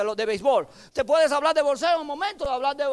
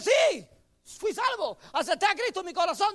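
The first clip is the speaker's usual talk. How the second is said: put-on child voice; 6 semitones higher than usual.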